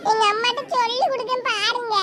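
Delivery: put-on childish tearfulness; stubborn crying. Child threatens to tell her mother, stubbornly tearful. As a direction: wail your threat like a stubborn kid. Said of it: "அடம் பிடிச்சு ஏமாத்தி அழுவுற".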